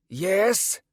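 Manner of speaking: put-on high, questioning old man's voice; distracted old mage; absent old man. A narrator's reading. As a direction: answer absently, mind elsewhere. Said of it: "the old man said absently".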